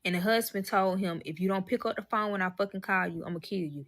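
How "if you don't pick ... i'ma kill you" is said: cool, understated imitation of a warning; straight-up threat. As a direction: state the threat plainly, ending quietly. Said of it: "He said that shit straight up".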